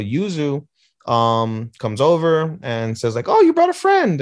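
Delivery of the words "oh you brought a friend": high, loud, delighted squeal; happy, excited greeting. Retold or imitated. Wife greeting husband's new friend, happy high squeal. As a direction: gush it like a thrilled wife. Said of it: "and everything is all happy".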